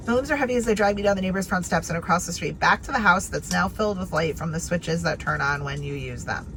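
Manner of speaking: fast read. Shown as a demonstration. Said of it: "here's an example".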